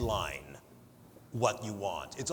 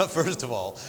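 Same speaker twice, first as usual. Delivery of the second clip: "First of all" said louder after a laugh, fully projected; 4 dB louder than usual. Real, not acted. Told to talk louder, she restarts at full volume. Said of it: "is talk louder".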